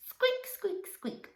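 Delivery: very high, tiny squeaks; mouse squeak. Pretend. Practising the story cue with children, tiny high squeaks. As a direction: give your best little mouse. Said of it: "best mouse with that squeak".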